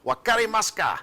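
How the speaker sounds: high, loud yell in Japanese; sideline yell. Shown as a demonstration. Coach demonstrating his sideline call to player, yelled high and loud. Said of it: "hear me on the sideline yell".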